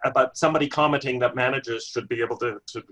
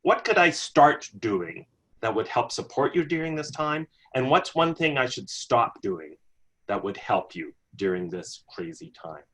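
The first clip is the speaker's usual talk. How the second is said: gentle manager question; 3 semitones lower than usual. Shown as a demonstration. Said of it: "number one question".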